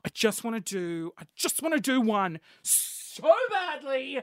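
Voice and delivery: breathless whispered longing; excited whisper. Retold or imitated. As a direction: whisper it, dying to do it. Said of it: "And I'm like".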